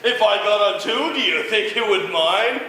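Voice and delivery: high, loud squeaky spider; a tiny spider asking politely; little tree spider. Acted. Spider asks bug.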